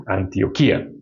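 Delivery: "Antioquía" leaning on the final KÍ; stress on the I. Shown as a demonstration. Preacher gives an example of the accent rule, stress on the I. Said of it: "que tiene acento en la I".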